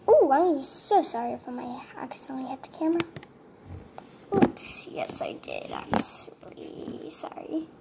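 whispered sorry to viewers. Real, not acted. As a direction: hush it out like you don't want to be overheard. Apologizes for bumping camera.

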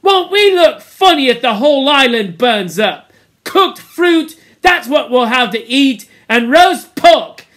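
high, loud ranting; Piggy's angry tirade. A narrator's reading. Piggy blames the boys for the fire, loud angry rant. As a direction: keep railing at them till the words run out. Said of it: "listening to his tirade".

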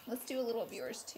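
soft unvoiced whisper. Real, not acted. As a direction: breathe it almost silently. Whispered aside.

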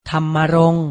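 ธรรมรงค์ said carefully and firmly as tham-ma-rong; careful teaching read of ธรรมรงค์; pronunciation model. Shown as a demonstration. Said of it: "ออกเสียงพร้อมๆพี่ไทยให้ถูกต้อง".

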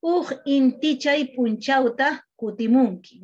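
"Uj intichay punchauta" despacio, bien articulado; lento y claro. Shown as a demonstration. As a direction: modelo lento de quechua puro. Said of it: "en lo que es puro sería". (frase en quechua pura, lenta y articulada)

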